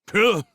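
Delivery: high, loud scoffing snort; scornful pugh. A narrator's reading. Old man dismissing the boy, scornful scoff. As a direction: blow out a disgusted pugh.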